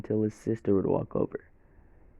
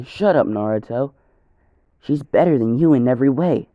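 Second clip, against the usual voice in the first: louder, higher scornful retort; scolding; 3 semitones higher, 5 dB louder than usual. Acted. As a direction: snap back at him, getting louder. Sakura scolding Naruto.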